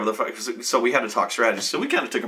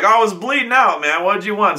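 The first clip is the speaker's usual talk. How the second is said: higher, louder defensive excuse; defensive friend; 8 semitones higher, 5 dB louder than usual. Retold or imitated. Friend excusing drinking the werewolf blood, defensive. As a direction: justify it, a bit exasperated. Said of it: "I was like".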